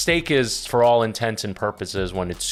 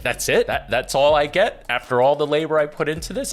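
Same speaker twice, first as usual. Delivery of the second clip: retold husband's indignation; 5 semitones higher than usual. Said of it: "And I'll be like".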